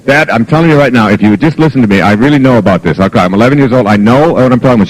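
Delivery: put-on run-on, insistent kid lecturing a parent; fast-talking daughter. Eleven-year-old advising dad on parenting, fast-talking imitation. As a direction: rattle it on, imitating a know-it-all child. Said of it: "She talks really fast like this and goes on and on".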